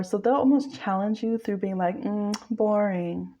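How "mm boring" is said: slow, unimpressed "Mm, boring"; bored muse. Retold or imitated. Bored muse shrugging off your effort, slow and unimpressed. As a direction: drag it out, totally unimpressed. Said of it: "One of them is kinda bored".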